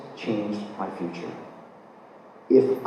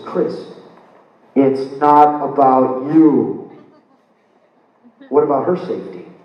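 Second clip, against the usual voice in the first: lightly voiced stern conscience, slow in the middle; loud, drawn-out admonishment from within; inner warning voice; 6 dB louder, slower than usual. Inner voice reminding him of her safety, mildly admonishing. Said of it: "And the voice says".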